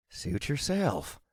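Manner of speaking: put-on slow southern accent; southern drawl. A narrator's reading. Wizard player gives up on the hero, southern drawl. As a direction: shrug it off in southern tones. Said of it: "he said with a southern drawl".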